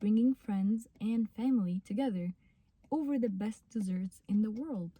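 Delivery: slow careful practice read; very slow reread. Shown as a demonstration. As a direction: reread the sentence very slowly, each word clear. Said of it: "بترجعي تاني".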